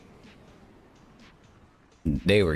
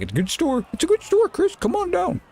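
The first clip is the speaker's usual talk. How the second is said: much higher, mock-eager pitch; hyped-up sales pitch. Old manager luring Chris to his store, hammed-up excited pitch. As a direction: oversell it like a cheesy recruiter.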